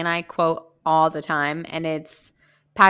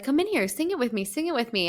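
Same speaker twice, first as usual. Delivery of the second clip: imitating Alsatia; 6 semitones higher, faster than usual. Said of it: "so funny how she's like".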